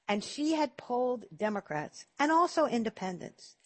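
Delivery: ordinary delivery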